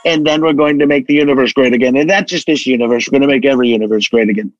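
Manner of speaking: lightly voiced Trump, escalating boast; a hint of Trump building a bigger and bigger promise; Trump impression. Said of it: "I would say".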